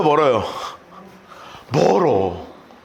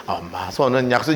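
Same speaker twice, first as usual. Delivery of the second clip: soothing mother; 7 semitones lower, 3 dB quieter than usual. Acted.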